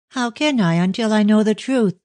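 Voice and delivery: passionate. A narrator's reading. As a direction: cry it out passionately. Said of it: "she said passionately".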